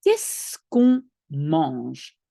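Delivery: slow, careful French; French question. Shown as a demonstration. Teacher modelling a French question slowly for a learner. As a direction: spell out each French sound slowly. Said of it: "it's a new verb".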